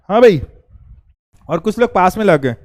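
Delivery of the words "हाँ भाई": put-on old man reading. Shown as a demonstration. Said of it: "थोड़ी सी acting कर लूँ".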